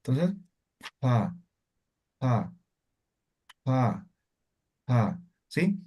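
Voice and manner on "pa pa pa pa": pa said with a puff of breath, blowing; aspirated pa. Shown as a demonstration. Teacher blows pa against a paper sheet, aspirated. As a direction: blow air on each pa against the sheet. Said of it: "Más o menos como el aspirado".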